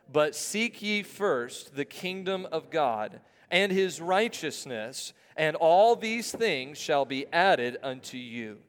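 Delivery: slow, evenly paced verse reading; deliberate word-by-word scripture recital; congregational recitation. Acted. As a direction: lead a crowd reading aloud in unison. Leads congregation reading verse aloud.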